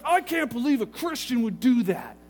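mildly indignant retelling; livid caller. Retold or imitated. Pastor imitates livid caller complaining about a church member, mild indignation. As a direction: imitate an outraged complainer, lightly. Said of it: "he was pretty livid".

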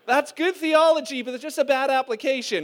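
loud fatherly reply. Retold or imitated. Father answers his sons' bad theology, loudly.

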